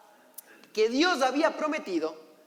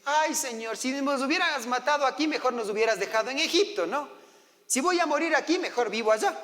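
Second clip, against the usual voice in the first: quejido del pueblo; 3 semitones higher than usual. Acted. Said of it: "Comienzan a quejarse".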